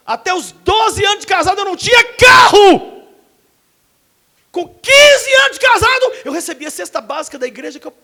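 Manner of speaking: loud, high rising proclamation; preaching shout. Acted. Preacher telling church of his poverty, rising shout. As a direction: build it to a cry over the hard years.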